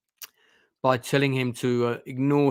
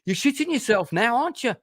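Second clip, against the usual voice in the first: higher, taunting stepfather voice, a bit put on; menacing stepfather; 10 semitones higher than usual. Stepfather taunting scared Felix, mock menacing. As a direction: sneer at him like the bullying stepfather. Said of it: "Felix is really scared and he goes".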